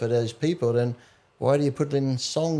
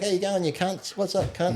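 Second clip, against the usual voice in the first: pitched up, softer matey greeting; friendly mock greeting; 5 semitones higher, 4 dB quieter than usual. Australian greeting mates without malice, pretend friendly. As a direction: greet a mate affectionately with a swear. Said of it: "it's the intent behind it".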